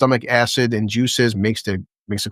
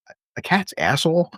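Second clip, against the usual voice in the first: incredulous; 6 semitones higher than usual. Retold or imitated. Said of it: "the way he fucking says it".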